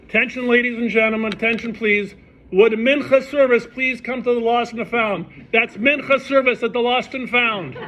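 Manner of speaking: booming stadium announcer call; PA announcement. Retold or imitated.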